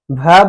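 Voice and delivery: भ loud and stretched with breath; long-breath भ. Shown as a demonstration. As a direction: push भ out on a full breath. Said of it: "थोड़ा सा लंबा सांस ले लेके". (भ लंबी सांस लेके)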